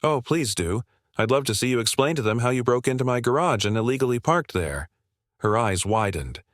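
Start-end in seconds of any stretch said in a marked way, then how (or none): 0.0-4.9 smirking. Acted. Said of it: "Me, smirking".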